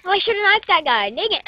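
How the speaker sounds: talking around a water bottle; mouth full. Real, not acted. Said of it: "I have a water bottle in my mouth".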